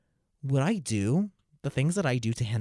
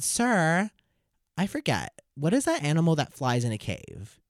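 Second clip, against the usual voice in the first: lightly voiced schoolkid, higher-pitched; 5 semitones higher, slower than usual. Pupil asking the teacher about a flying animal, lightly voiced schoolkid. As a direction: play a pupil asking with put-on innocence. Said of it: "And they said".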